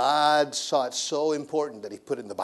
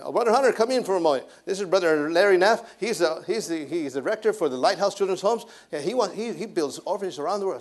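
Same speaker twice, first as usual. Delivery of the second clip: a hint of higher-voiced host; retold welcome, slightly higher voice; lightly voiced pastor; 4 semitones higher than usual. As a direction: introduce a visitor, pitched up a little. Voices pastor calling him in.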